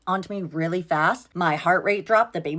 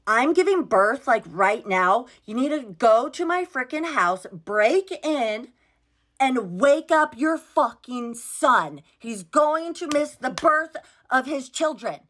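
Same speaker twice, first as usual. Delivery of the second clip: frantic urgent; 5 semitones higher than usual. Retold or imitated. Frantic call to his mom.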